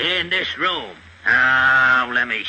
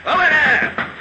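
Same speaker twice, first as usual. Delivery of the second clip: sharp high shout, much higher; shouting through door; 10 semitones higher than usual. Acted. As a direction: bang on the door and yell it. Inspector pounding on a door.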